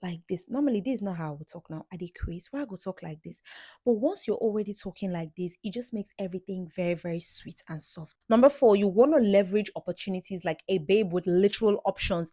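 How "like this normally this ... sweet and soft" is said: much softer, sweet and low; soft, sweet demo voice; lowered soft tone. Shown as a demonstration. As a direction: lower your voice to sound sweet. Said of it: "you want to lower your tone".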